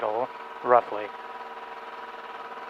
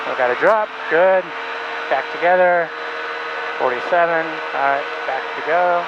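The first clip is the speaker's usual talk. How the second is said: shouting over engine; 2 semitones higher than usual. Real, not acted. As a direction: call it out over the run-up. Engine run-up, talking over noise.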